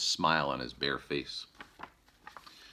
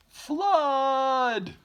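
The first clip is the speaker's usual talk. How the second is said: much higher, louder alarmed shout; 7 dB louder than usual. Acted. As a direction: yell out the warning. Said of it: "Mister Blair shouts".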